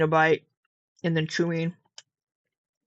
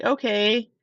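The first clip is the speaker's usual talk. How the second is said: drawn-out, higher mock brush-off; imitated dismissal; 4 semitones higher, much slower than usual. Retelling a stranger's rude goodbye, drawn-out mock dismissal. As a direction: mimic her signing off, stretching it out. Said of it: "she's like".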